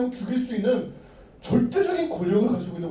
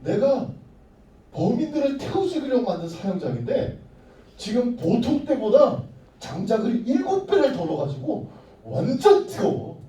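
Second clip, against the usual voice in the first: threatening king. Acted. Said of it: "그렇게 협박을 했어요".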